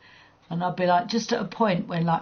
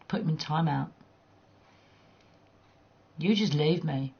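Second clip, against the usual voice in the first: usual speaking voice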